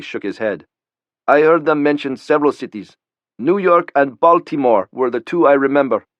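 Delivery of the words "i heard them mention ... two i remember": put-on higher, tense young man's voice; nervous young Pakistani. A narrator's reading. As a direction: voice him scared and unsure. Khalili voiced by narrator.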